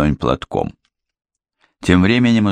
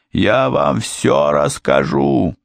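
pleading; 8 semitones higher, slower than usual. A narrator's reading. Wounded criminal begging.

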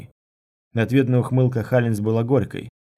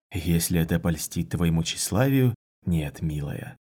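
cool condescension; 4 semitones lower than usual. Acted. Lover coolly answers her insult.

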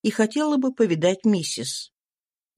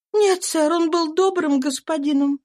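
higher, tense voice of a runaway mother; fugitive mother's voice; 9 semitones higher than usual. A narrator's reading. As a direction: voice the exhausted slave woman, pitched up. Eliza voiced. (беглая мать, голос выше, напряжённо)

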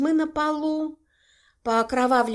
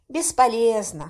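plain reading voice

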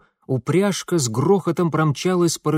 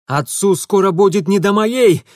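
shouting; 6 semitones higher, 7 dB louder than usual. A narrator's reading. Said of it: "проорал Митя".

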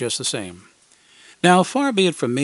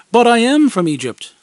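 much higher, louder mock protest; a hammed-up fib; lying; 9 semitones higher, 7 dB louder than usual. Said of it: "I lied".

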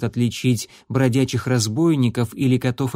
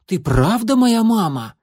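much higher, louder small kitten voice; blurted kitten question; 8 semitones higher, 4 dB louder than usual. A narrator's reading. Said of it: "выпалил".

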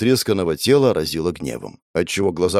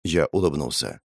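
ordinary delivery

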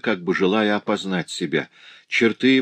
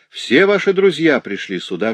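high, excited announcement; joyful exclamation; 7 semitones higher, 4 dB louder than usual. A narrator's reading. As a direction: announce it eagerly to the recovering man. Friend greets recovered man joyfully.

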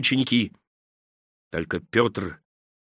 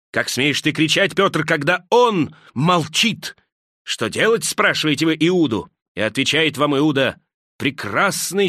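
rising, pitched-up, fervent accusation; impassioned tirade; 2 semitones higher than usual. Acted. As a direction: Judas shaming the disciples, rising fervour.

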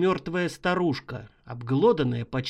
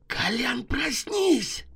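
much higher, shaking him awake; urgent wake call; 7 semitones higher, slower than usual. Acted. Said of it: "растолкал меня Шайба".

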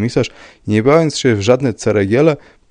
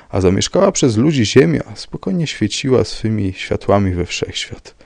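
ordinary delivery

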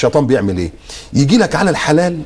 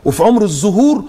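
mocking woman's lament; 6 semitones higher than usual. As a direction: parody her fake pity. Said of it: "طالعة بتقول لك".

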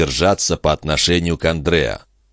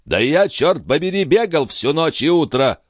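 higher-pitched protest; indignant; 10 semitones higher than usual. A narrator's reading. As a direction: defend yourself with outrage. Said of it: "возмутился Жан".

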